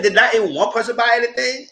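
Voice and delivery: laughing disbelief. Real, not acted. Incredulous question while laughing.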